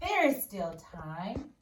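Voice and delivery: very slow and gentle; simply, smiling. Acted. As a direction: say it kindly, taking your time. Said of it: "The boy smiled and said simply".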